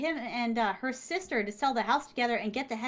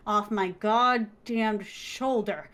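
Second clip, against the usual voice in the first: slow, deliberate threat; slow menace; much slower than usual. Retold or imitated. The writer threatening the muse's hand on her shoulder, slow and menacing. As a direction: spell out each word as a warning.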